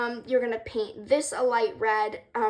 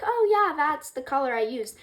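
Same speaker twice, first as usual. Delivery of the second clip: excited quote; 5 semitones higher, 5 dB louder than usual. Retold or imitated. Imagined quote of another painter.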